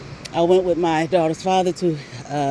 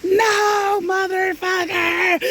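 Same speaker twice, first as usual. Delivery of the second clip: mock angry retort; 12 semitones higher, much slower than usual. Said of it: "her angry retort".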